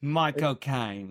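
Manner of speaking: drawn-out slow Michael Caine name; Michael Caine impression. Trying again at the Michael Caine voice, slow. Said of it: "Why don't we hear it now".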